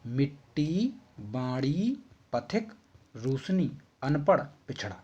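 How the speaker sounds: each word spoken slowly and clearly, one by one; teacher showing pure pronunciation; careful pronunciation. Shown as a demonstration. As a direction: model the correct sounds for the class. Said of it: "शुद्ध उच्चारण मैं सबसे पहले आपको करके बताता हूँ".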